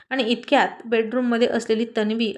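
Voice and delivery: usual speaking voice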